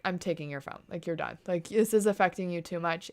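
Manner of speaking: low, soft imitation of someone cutting you off; imitating a firm intervention. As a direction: quietly lay down the rule, as if quoting. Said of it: "Grace comes in, she's like".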